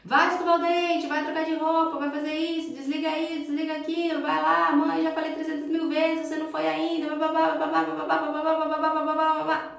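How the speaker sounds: high, loud nagging mother; nagging yell. Retold or imitated. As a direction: yell orders at the kid like a fed-up mom. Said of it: "ficar lá gritando". (mãe gritando ordens sem parar, bem alto)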